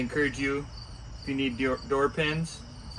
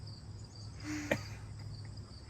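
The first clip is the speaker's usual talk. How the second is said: soft, high unvoiced giggle; high breathy giggle; 13 dB quieter than usual. Real, not acted. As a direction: giggle you can't stop. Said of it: "I don't even know I'm laughing".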